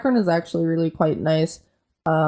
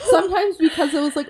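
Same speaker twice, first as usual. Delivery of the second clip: laughing; 10 semitones higher than usual. Real, not acted. Laughing while recalling crying.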